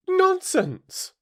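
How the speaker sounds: high, forceful cutting-in; loud and decided. A narrator's reading. Alice cutting off the Queen, very loud and decided. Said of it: "very loudly and decidedly".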